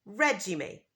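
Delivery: regime with a hard j sound, REH-jeem; American regime. Shown as a demonstration. Teacher models American regime. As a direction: give regime a j. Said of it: "in American English, we say".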